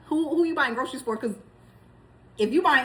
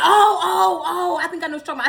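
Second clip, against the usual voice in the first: imitating husband; 4 semitones higher, 4 dB louder, faster than usual. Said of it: "he was like".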